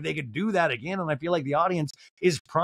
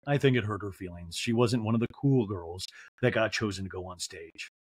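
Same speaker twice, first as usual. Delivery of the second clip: mock sad confessional; 6 semitones lower than usual. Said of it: "Garcelle in a talking head's like".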